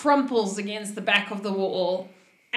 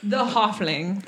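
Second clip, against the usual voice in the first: whisper; 2 semitones higher, 3 dB quieter, slower than usual. Acted. GM turns to the sneaky halfling.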